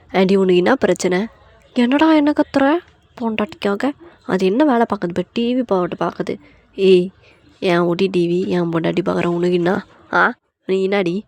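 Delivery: acted confrontational scolding; angry telling-off. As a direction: challenge the aunt, defending your wife. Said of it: "J K செம்மையா போட்டு திட்டி".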